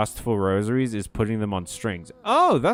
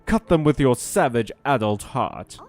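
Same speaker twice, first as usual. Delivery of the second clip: eager Nu voice. Acted. Nu keeps pushing her request.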